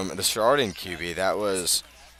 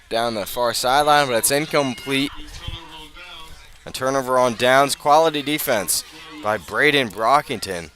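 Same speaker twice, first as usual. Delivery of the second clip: rising, louder call of the pass; excited play call; 3 semitones higher, 5 dB louder than usual. Real, not acted. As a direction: sell the incompletion with a burst of energy. Incomplete pass on fourth down.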